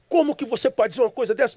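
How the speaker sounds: fast, high-pitched protest; indignant retort. Retold or imitated. Son disputes the stranger's verdict on his father, indignant. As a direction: fire back in disbelief, quick and high.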